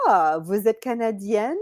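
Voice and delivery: put-on lightly French-accented question "vous êtes Canadienne?"; French speaker. A French local guessing she is Canadian, light French accent. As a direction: ask in easy French, curious. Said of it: "they're like".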